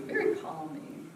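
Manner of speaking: soft, hushed soothing voice; softly soothing; calming. Shown as a demonstration. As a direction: say it gently to calm them. Describing a soothing voice.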